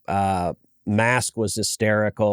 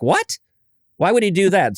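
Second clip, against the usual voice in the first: higher, startled "What?" in the daughter's voice; imitating a surprised daughter; 8 semitones higher than usual. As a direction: play the twelve-year-old caught off guard. Daughter reacts to the demon painting.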